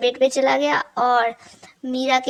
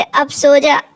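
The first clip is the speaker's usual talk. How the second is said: firm command; 6 dB louder, slower than usual. Acted. Hits Tara with pillow.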